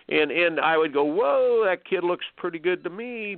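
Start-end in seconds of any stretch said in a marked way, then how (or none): 1.0-3.4 surprised whoa. Retold or imitated. Disagreeing with Hopman's verdict.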